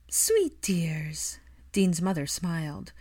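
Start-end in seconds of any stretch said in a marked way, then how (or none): 0.1-1.4 breathy whisper; whispered fondness. A narrator's reading. Dean's mother whispers fondly about the sleeping cousins. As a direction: whisper so the sleeping kids don't wake. Grandmother over sleeping children.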